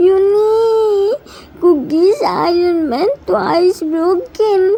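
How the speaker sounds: tearful, voice breaking with sobs; crying. Acted. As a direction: confess through tears. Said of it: "He saw Jimin was crying".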